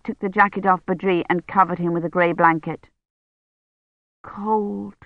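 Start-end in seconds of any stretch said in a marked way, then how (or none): 4.2-4.9 weak feverish murmur. Acted.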